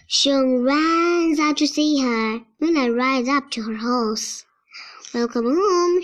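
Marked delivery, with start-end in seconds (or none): 5.1-6.0 shout. Acted. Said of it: "shouts Xiong".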